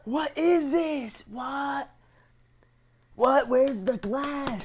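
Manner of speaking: high, slow, incredulous cry; looking at a plastic Snapple bottle, high slow disbelief; real disbelief. Real, not acted. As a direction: sound truly baffled by the bottle.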